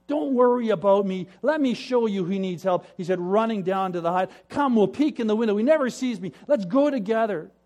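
loud, high and hurried; eager rush. Acted. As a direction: pull him along to spy. Eager brother rushes off.

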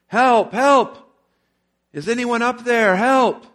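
high, loud desperate cries for help; yelling for help. A narrator's reading. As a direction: shout up the canyon for rescue. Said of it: "Jack began yelling for help".

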